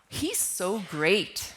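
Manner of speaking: genuinely admiring, slow and even; mean it as real praise; sincere praise. Shown as a demonstration. Teacher demonstrating tone, sincerely admiring. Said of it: "with a different tone of voice".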